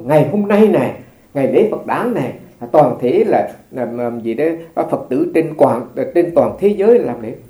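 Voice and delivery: imitating monks' public announcement, emphatic rises; retold proclamation. Monk recalls senior monks declaring the festival day, proclaiming. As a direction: announce it to the assembly, stressing each phrase loudly. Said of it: "tuyên bố".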